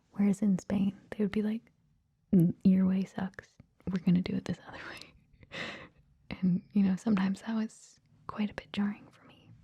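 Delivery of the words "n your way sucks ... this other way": mock blunt dismissal; blunt, direct. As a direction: imitate someone stating it point blank. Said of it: "more direct".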